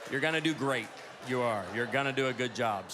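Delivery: low, calming pep talk; mock reassurance. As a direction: reassure them soothingly, tongue in cheek. Mock reassuring audience members who disapprove.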